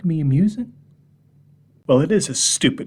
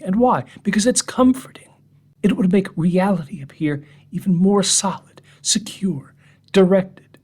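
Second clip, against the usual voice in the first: mocking; 7 semitones higher than usual. Mocking rhetorical build.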